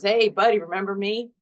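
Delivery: a hint of a smug old seatbelt greeting; talking seatbelt. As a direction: seatbelt taunting its owner, lightly voiced. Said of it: "Seatbelt says".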